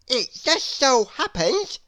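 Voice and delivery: a pompous nonsense man explaining; Mister Nonsense. Acted. Mister Nonsense answers Miss Curious grandly. Character voice.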